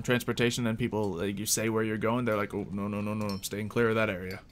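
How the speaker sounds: usual speaking voice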